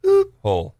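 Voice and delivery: high self-censored call-out; mock crowd shout with a bleep; imitated yell. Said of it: "everyone yells out".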